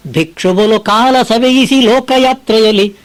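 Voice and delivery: slow, measured verse chanting; poem recitation. Acted. Preacher reciting Mankutimmana Kagga to listeners, slow recitation. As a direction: lay out each line of the verse slowly.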